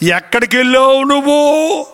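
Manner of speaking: suspicious interrogation. Acted. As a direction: lightly act a suspicious interrogator. Acted interrogation by suspicious wife.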